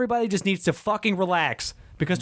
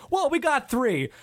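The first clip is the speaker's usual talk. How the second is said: whiny fan voice; 12 semitones higher than usual. Retold or imitated. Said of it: "fans are still like".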